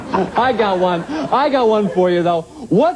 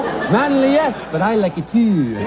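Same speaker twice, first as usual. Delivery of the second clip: Irish commercial woman. Acted. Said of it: "that chick on the Irish Spring commercial".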